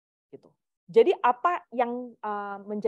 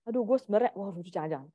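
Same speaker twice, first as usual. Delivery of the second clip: hesitant; 3 dB quieter, faster than usual. Retold or imitated. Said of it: "Kalau misalnya orangnya nggak enakan".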